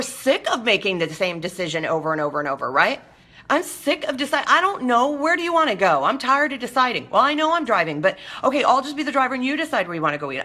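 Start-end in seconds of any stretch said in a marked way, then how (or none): 3.5-10.4 indecisive whiny friend. Acted.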